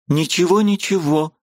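высокое быстрое «ничего»; торопливо подхвати; живо подхватив. A narrator's reading. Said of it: "с живостью подхватила она". (высоко и живо, с готовностью)

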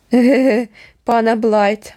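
grin and sneer the words; mocking snicker. A narrator's reading. Kert sneering at the guest, mocking laugh. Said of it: "вишкірився Керт".

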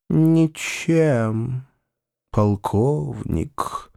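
martyred humility; sanctimonious. Acted. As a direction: Foma answering the colonel with a sour, pious face. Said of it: "с постною миной отвечал Фома".

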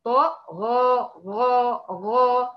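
طا then غا drawn out slowly; طا with full emphasis, غا from the throat; letter drill. Shown as a demonstration. Teacher drilling the letters. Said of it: "طا بنرتفع بها".

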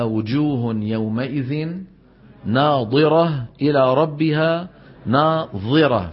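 slow measured Quran recitation; slow, chanted tilawa. Shown as a demonstration. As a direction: recite it slowly and carefully. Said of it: "فإذا بدنا ننطق الأولى كالثانية".

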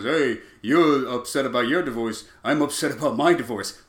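lazy shock jock impression; Howard Stern. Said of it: "Howard Stern comes in and goes".

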